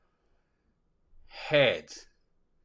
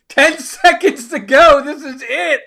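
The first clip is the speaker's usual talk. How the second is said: excited countdown; 6 semitones higher, 7 dB louder than usual. Real, not acted. Countdown to poll result, excited.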